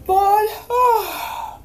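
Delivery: high, laughing scoff at bored; surprised little laugh; amused surprise. A narrator's reading.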